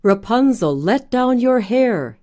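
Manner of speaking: knight calling up to the window. Acted. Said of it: "he cried".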